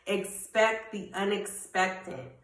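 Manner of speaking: Expect the unexpected spoken slowly, each word weighed; a slow, firm motto; slow emphatic declaration. Shown as a demonstration. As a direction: lean on "Expect", slow and deliberate. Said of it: "What are you gonna speak over your life".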